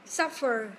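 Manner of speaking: emphatic American "Suffer"; strong American R. Shown as a demonstration. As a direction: hit "Suffer" and sound the American r at the end. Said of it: "theo anh Mỹ thì nó bật âm R khá là mạnh".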